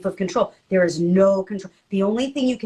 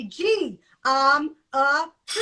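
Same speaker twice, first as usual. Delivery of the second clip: put-on kid's answer; 4 semitones higher, much slower than usual. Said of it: "a thing I play with kids, and they say".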